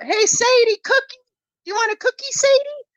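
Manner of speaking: high sing-song call across the trail; calling out to her dog. Retold or imitated. Owner calling her puppy back with a treat, high sweet call. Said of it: "And I yelled out".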